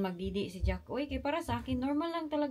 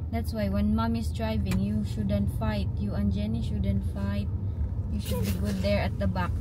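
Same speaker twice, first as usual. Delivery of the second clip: louder stern telling-off; 6 dB louder than usual. Real, not acted. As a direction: lay down the law firmly. Scolding kids about fighting.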